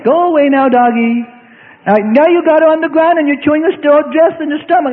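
high, pleading mock plea to a wild dog; timid pleading with a dog. Mocking a timid parent begging a wild dog, high and pleading. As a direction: beg the dog meekly to go away, voice up high. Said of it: "who's attacking your child and say".

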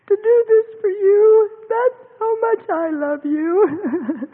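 slow tearful words; crying. Real, not acted. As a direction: overcome while quoting God. Quoting God, tearful.

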